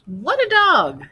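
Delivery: high, loud squawking parrot; shrill-free high parrot screech. Acted. Parrot voice in read story.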